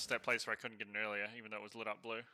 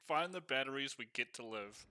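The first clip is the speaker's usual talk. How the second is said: laughing while quoting the line; mocking repeat. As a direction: chuckle through a mocking echo.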